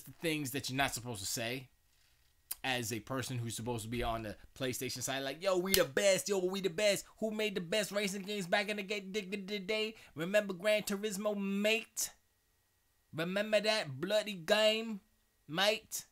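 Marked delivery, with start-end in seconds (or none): 5.4-16.0 high, loud mock English accent; badly faked English accent. Streamer mocking Jim Ryan's PlayStation boasting, in a bad English accent. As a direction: put on a hammy English accent. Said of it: "English accents".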